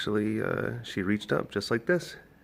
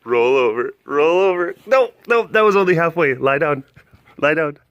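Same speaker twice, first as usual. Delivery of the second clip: much higher and louder commands; high excited dog talk; 8 semitones higher, 13 dB louder than usual. Real, not acted. Keeper training Mister Stinks, high excited praise. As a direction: cheer the dog on, squeaky.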